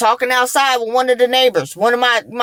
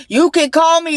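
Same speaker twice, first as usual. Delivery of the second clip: pleading a bit higher; imagined plea; 5 semitones higher than usual. Retold or imitated. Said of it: "is what I wanted to say".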